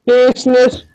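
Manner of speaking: talking through a mouthful; words muffled by a full mouth; mouth full of peanut butter. Real, not acted. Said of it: "it does kind of sound like you're talking with, like, a mouthful of peanut butter".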